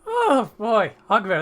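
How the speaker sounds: loud, high, jovial exclamation; amused Colm. Acted. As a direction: wind down from a big guffaw.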